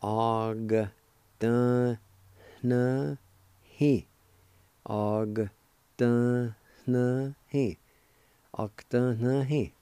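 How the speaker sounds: "Og, dun, na, he" one syllable at a time; broken into syllables. Shown as a demonstration. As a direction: pause after each of "Og", "dun", "na", "he". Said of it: "you pronounce the G sound with the first A like this".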